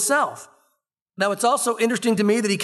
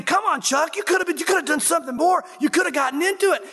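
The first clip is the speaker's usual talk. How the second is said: mock disappointment; 6 semitones higher than usual. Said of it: "I left there thinking".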